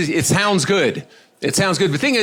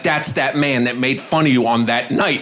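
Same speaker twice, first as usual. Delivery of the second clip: slow accusation. Retold or imitated. Wife pointing out comedian to husband.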